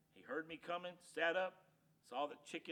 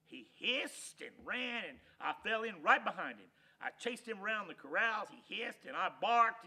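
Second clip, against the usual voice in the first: excited narration; 5 semitones higher, 9 dB louder than usual. A narrator's reading.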